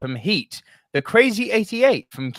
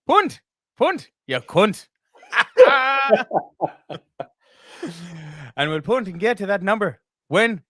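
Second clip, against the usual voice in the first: put-on Irish accent; 2 semitones higher than usual. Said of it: "no more attempts at terrible Irish accents".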